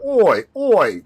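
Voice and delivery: loud Boston vowel from the throat; throaty East Coast accent. Shown as a demonstration. Demonstrating East Coast talk, throaty Boston accent. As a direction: push it from the back of the neck, Boston-style. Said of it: "very more in the throat, back of the neck".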